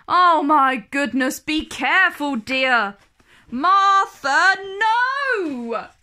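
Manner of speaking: panicked nanny rising to a shout; alarmed nanny. A narrator's reading. Nanny crying out as Martha misbehaves, alarmed shout.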